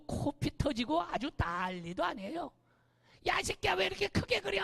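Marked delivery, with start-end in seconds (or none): 3.3-4.6 mock angry child yelling, pitched high; kid's angry yell. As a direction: play a kid snapping at a playmate over the game. Kids fighting over drawn land. (아이가 친구에게 화내며 소리치는 흉내)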